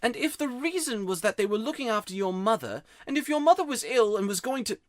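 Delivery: put-on boy's voice rising, close to tears; holding back tears. A narrator's reading. Diggory tells Polly of his ill mother, near tears. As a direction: push on, voice catching before die. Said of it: "trying to keep back your tears".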